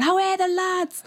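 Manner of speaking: high Geordie terrace call; Geordie shout. Retold or imitated. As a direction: call it like a football fan. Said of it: "and you'd shout".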